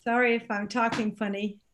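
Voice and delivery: talking with a numb mouth; words slurred by Novocaine; numb from the dentist. Real, not acted. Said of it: "this side of my mouth is completely numb".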